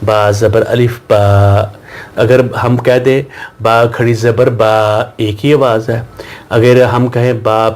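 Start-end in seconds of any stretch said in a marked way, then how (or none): 0.1-1.6 slow spelling drill. Shown as a demonstration. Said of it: "یہ دیکھیں،".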